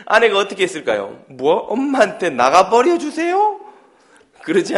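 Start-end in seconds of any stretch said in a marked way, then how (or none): 1.3-3.6 shocked mother. Acted.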